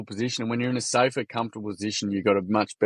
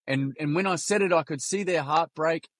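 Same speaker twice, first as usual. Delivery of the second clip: lightly voiced little kid confessing, higher pitch; a hint of a small boy owning up; retold child's confession, pitched up; grade-three boy; 4 semitones higher than usual. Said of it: "This is a kid in grade three".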